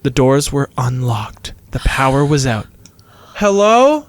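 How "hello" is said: high, rising call into the building; screamed call. A narrator's reading. Nikki calls into the unlocked school, screamed. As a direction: call out searchingly, pitched up. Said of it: "Nikki screamed".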